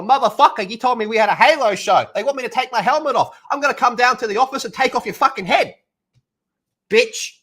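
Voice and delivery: loud, high-pitched tirade hurled at the manager; furious rant. Pretend. Actor on the phone to his manager, furious shout. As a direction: tear into him over the phone, full blast. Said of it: "abuse the fuck out of him".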